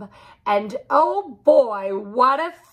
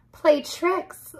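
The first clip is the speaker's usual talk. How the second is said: laughing; 8 semitones higher than usual. A narrator's reading. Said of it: "laughed the cat".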